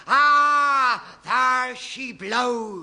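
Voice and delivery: loud, slow sighting call; lookout cry. Acted. Captain spotting the great duck, slow ringing cry. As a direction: call it out across the sea.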